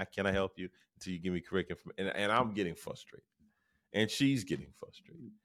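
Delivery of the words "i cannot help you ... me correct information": very fast, softened rote repetition; speaking very quickly. Retold or imitated. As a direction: mimic an agent racing through a script. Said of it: "she spoke very qu-, quickly".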